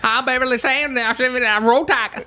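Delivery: mock a peppy college girl; college girl video. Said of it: "those girls that would say".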